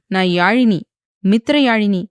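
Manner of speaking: மித்திர யாழினி proclaimed loud, each word weighted; stress on her name. A narrator's reading. Wife declares her full name to husband, stressing மித்திர. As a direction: announce நான் யாழினி, மித்திர யாழினி with pride. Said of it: "என்று ஆவேசமாக கூறினாள்".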